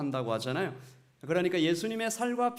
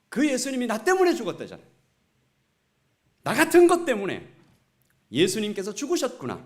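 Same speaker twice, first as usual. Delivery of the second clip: louder, anguished cry, 때문에 stressed; anguished wail; 5 semitones higher, 8 dB louder than usual. Retold or imitated. Pastor as a boy, wailing over his sin to his friend, anguished cry. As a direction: cry out in guilt-stricken grief. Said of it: "더 크게 통곡하게 되었다".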